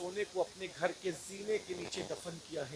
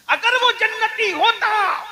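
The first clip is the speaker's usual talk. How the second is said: high, slow, loud preaching cry; preaching shout; 14 semitones higher, 15 dB louder, much slower than usual. Real, not acted. (بلند آواز میں کھینچ کر پکارنا)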